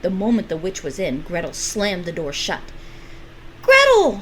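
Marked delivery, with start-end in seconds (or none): 3.6-4.2 loud, high call. Acted. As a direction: call her name with joy. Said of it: "Hansel called out".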